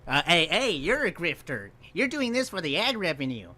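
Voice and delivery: loud, high-pitched accusation; indignant callout. Real, not acted. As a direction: shout them down as a grifter. Calls out the video's hypocrisy.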